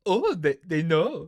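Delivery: mock German accent. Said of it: "He's like".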